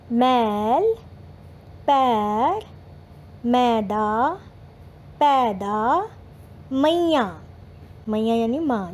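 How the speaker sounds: each word said clearly and drawn out for pupils to repeat; reading words for class. Shown as a demonstration. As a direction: read the word list like a primary teacher. Teacher reads word list aloud. (बच्चों के लिए शब्द साफ़-साफ़ पढ़ना)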